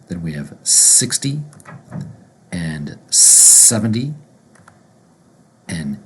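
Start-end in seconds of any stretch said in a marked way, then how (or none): 0.6-4.1 "sixty" and "seventy" as "sixdy", "sevendy", rising; tens with D. Shown as a demonstration. Teacher modelling the tens, D sound. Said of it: "gonna pronounce with a D sound".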